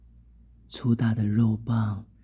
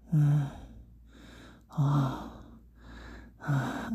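soft moans; 4 semitones higher, 4 dB quieter, much slower than usual. Acted. Narrator acting in an intimate scene, soft moans. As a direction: let out short, unhurried moans.

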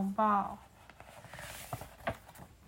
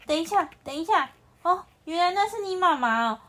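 high, loud alarmed cry; panicked shout; 5 semitones higher, 8 dB louder than usual. Acted. The lion pleading with the antelope, panicked shout. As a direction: yell it out in a fluster to stop him. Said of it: "狮子惊慌地喊了一喊".

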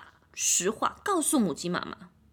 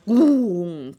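booming hum; 4 semitones lower, 8 dB louder than usual. Acted. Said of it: "鸡舍都被它震到了".

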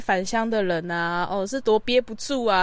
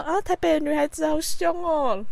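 mock aggrieved mom; 5 semitones higher than usual. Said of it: "在那边装委屈".

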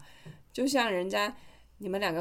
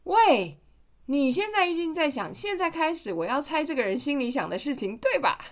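mildly higher, mocking call-out; teasing taunt; 5 semitones higher than usual. Mother showing how to taunt the mind-reader first. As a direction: beat him to it with a taunt. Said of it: "你就要先说".

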